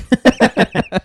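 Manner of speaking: high-pitched imitated dog noise; dog impression. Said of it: "the best impression of a dog".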